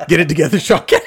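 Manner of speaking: loud, laughing pep talk; mock self-scolding. Host teasing guest about talking to himself, mock scolding. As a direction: playfully scold through laughter. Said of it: "when you look in the mirror".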